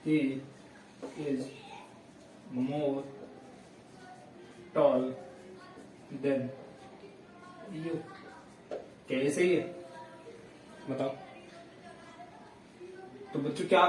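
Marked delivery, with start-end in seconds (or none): 0.1-7.9 words spaced out with long pauses; teacher dictating a wrong example, slowly; slow dictation. Shown as a demonstration. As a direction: read it out word by word. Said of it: "मैं एक sentence लिखता हूं".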